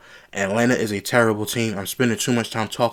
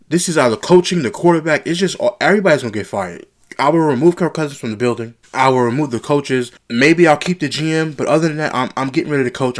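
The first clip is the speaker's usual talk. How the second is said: loud, higher and fired-up; heated rant; 4 semitones higher, 5 dB louder than usual. Real, not acted. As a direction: declare you'll clean house, heated. Vowing to fire the whole staff.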